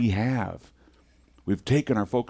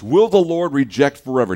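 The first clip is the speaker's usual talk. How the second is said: mild lament; 4 semitones higher, 7 dB louder than usual. Shown as a demonstration. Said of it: "this person's not in a good state".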